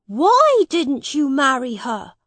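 put-on high, inquisitive young prince; a boy puzzled by a grown-up; boy king asking. A narrator's reading. Edward asks Miles why, high and puzzled.

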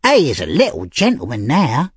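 high, loud hoot easing off; mock the little gentleman gleefully; laughing mockery. A narrator's reading. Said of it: "laughed Charlie Bates".

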